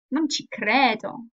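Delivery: Non ci credo slow, stress on non, falling flatly; slow incredulous Non ci credo; disbelieving. Shown as a demonstration. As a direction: say Non ci credo like you can't believe it. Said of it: "needs to have some clear intonation".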